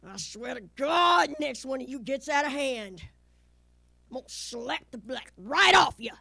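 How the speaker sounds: imitated scolding with loud bursts; fed-up mama. Mama warning kids who act up, imitated fed-up scolding. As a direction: play mama at the end of her patience. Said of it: "she'd get fed up".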